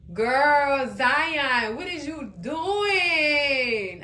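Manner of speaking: drawn-out exasperated shout at the screen; exasperated cry. Real, not acted. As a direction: stretch it out, calling out in disbelief. Exasperated at character Zion.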